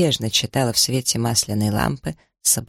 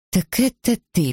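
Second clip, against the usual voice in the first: friendly greeting; 7 semitones higher than usual. A narrator's reading. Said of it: "приветливо произнесла Джесс".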